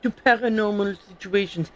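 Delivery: hammed-up French accent, reading in character; amateur mock-French accent; fake French accent. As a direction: put on a bad French accent. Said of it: "That was a terrible fake French accent".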